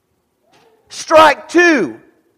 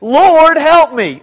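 louder, pressing call of Lord, help me; a firm, raised cry for help; insistent plea; 3 semitones higher, 6 dB louder, slower than usual. Acted. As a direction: call out to him with urgency. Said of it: "All she says is".

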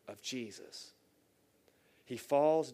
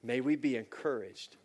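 measured, earnest prayer voice; closing prayer. Real, not acted. Pastor praying over listening church, earnest.

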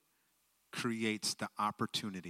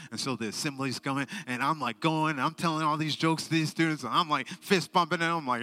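much louder, higher, bursting with energy; excited storytelling; 6 semitones higher, 11 dB louder than usual. Real, not acted. Speaker recounting the assembly, loud and thrilled. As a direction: tell it like it's the best day ever.

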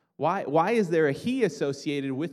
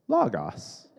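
Brian; 5 dB louder than usual. Retold or imitated. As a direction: mimic a student parroting the computer. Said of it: "And Brian go".

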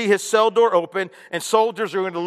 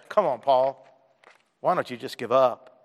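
taunting; 6 semitones lower than usual. Pretend. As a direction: goad him to quit. Mock tempter taunting Paul.

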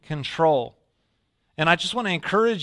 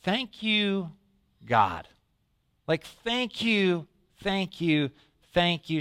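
grateful relief; 5 semitones higher, 4 dB quieter, slower than usual. Retold or imitated. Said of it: "But I'm like".

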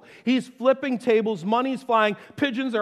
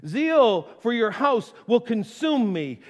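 slow scripture reading; slower than usual. Acted.

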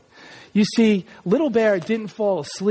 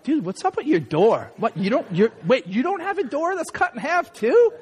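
puzzled mock disbelief, climbing in pitch; incredulous friend; 3 semitones higher than usual. Childhood friend questioning a strange bedroom door, incredulous. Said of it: "and they're like".

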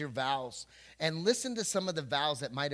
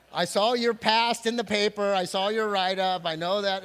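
louder, laughing tease at the crowd; teasing jab; 4 semitones higher, 9 dB louder than usual. Real, not acted. Pastor teasing his congregation, louder with a laugh. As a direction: rib them loudly with a laugh.

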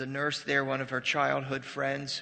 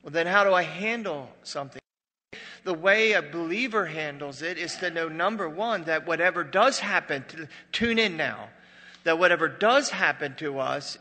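loud, driving sermon delivery; emphatic preaching; 3 semitones higher, 8 dB louder than usual. Real, not acted. Preacher telling the congregation how believers cope, emphatic and loud. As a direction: preach the point home, loudly.

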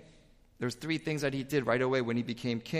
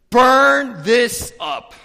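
slow, booming shout, much higher and louder; commanding shout; 9 semitones higher, 16 dB louder, much slower than usual. Acted. Young king roaring at his people to burn the idols, full shout. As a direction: bellow the order to burn it all.

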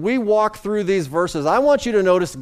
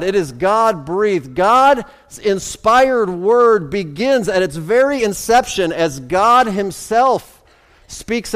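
slow, weighty preaching on each phrase; emphatic preaching; 3 semitones higher, slower than usual. Real, not acted. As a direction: preach it deliberately, stretching the key words.

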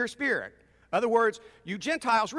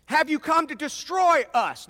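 raised-pitch challenge; threatening demon; 5 semitones higher, 4 dB louder than usual. Acted. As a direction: confront them with a threat. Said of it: "and he was threatening".

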